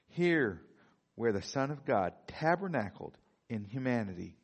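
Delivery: measured, emphatic reading with weighty pauses; solemn quote reading. Acted. Preacher reading a promise to the congregation, solemn and measured. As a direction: read it out as lofty proclamation.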